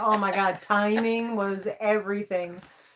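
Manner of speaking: ordinary talk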